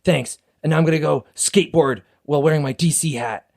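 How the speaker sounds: lightly put-on Canadian skater-boy accent; white Canadian boy. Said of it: "Wait, I'm gonna attempt it".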